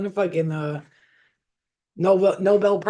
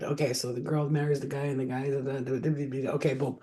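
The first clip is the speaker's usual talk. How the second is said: skim reading; 3 semitones lower, 6 dB quieter than usual. Shown as a demonstration. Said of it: "reading my books like that".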